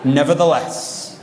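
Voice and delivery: slow, dignified mock pioneer vow; hammed-up noble restraint, laughing through it; mock solemn resolve. Teen answering parents quotes the pioneer journal, slowly and solemnly. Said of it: "we're gonna use Brother Hyde's pattern".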